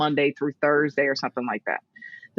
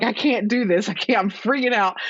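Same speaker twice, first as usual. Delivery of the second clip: higher-pitched mock freak-out; retold tearful panic; 4 semitones higher than usual. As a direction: replay a mild panic on the phone to parents. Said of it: "I'm crying".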